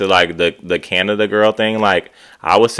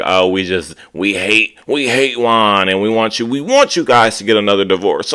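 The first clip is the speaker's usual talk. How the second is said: mocking whiny voice. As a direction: parody what she claims they say. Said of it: "make it seem like".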